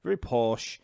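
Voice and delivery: mock posh English accent; lightly put-on posh British voice. Shown as a demonstration. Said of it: "a British accent as being very much like this".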